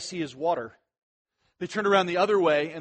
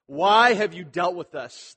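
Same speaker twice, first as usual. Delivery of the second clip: slow, louder protest on the opening; aggrieved crowd challenging its leader; bitter complaint; 6 dB louder, slower than usual. Acted. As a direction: complain accusingly, drawing it out. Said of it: "that the people complain bitterly".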